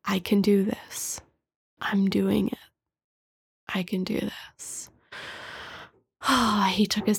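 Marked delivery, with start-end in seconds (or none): 0.0-4.9 hushed repetition with pauses between phrases; whispered mantra. Retold or imitated. Retelling him breathing with eyes closed, whispered mantra. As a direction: whisper it to yourself, letting it fade. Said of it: "repeating his mantra".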